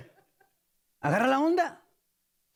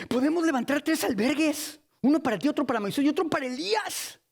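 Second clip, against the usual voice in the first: eager Peter; 5 semitones higher than usual. Acted. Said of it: "Y luego le dice".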